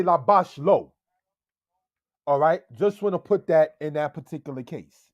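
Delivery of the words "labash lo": lo placed after labash; wrong word order. Shown as a demonstration. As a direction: say labash first, then lo. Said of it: "You wouldn't say".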